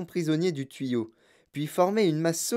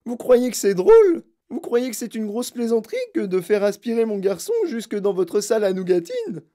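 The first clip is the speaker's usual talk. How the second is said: furieuse; 7 semitones higher, 5 dB louder than usual. Acted. Mère furieuse accuse.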